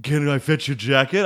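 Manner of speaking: lightly hammed snooty butler. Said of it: "most butler voice ever".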